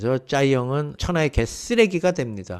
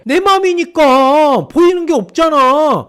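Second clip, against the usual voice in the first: defiant shout; 13 semitones higher, 8 dB louder, slower than usual. Acted. Narrator's defiant self-justification.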